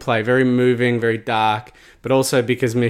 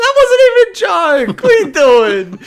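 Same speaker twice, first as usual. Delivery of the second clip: exasperated; 7 dB louder than usual. Retold or imitated. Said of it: "I'm like".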